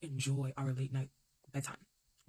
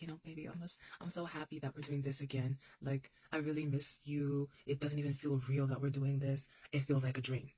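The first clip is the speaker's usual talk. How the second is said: sweet romantic quote. Retold or imitated. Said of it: "I was like".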